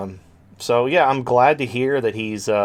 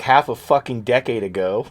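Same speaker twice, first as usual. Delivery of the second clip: ordinary delivery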